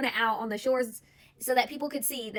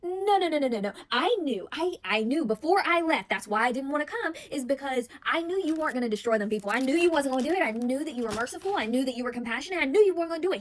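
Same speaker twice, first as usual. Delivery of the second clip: mock angry rant. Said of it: "He was mad, crashed all the way out".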